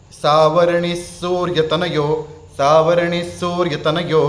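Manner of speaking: सावरणी सूर्यतनयो chanted slowly and clearly; slow teacher's demo chant; slow recitation. Shown as a demonstration. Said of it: "अब उसी श्लोक में आप देखेंगे".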